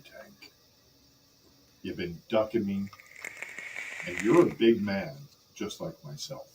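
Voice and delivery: halting promo with long pauses; wrestler's measured challenge. Acted. Acts a second wrestling promo.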